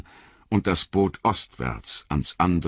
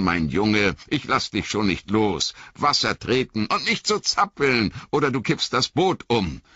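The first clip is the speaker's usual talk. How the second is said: calm Frodo; 7 semitones higher than usual. Acted.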